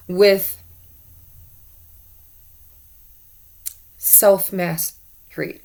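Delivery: hiccuping mid-word; talking through hiccups. Real, not acted. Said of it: "I don't know why I'm hiccuping".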